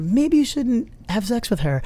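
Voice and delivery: a hint of a small voice of intuition; tiny inner voice. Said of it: "It's a tiny voice that goes".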